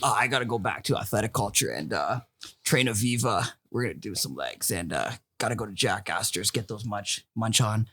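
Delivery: stoner voice. Pretend. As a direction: mumble it like you're baked. Stoner voice game, his turn.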